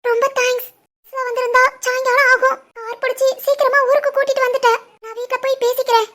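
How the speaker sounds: soft, upset refusal; quietly tearful. Acted. Young woman declining her boyfriend's company home, quietly tearful. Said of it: "ஏன் அழுகுற?".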